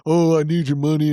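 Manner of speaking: hammed-up begging for cash; a light put-on plea for money; mock needy plea. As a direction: play the needy host, half joking. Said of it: "I always do that shtick about".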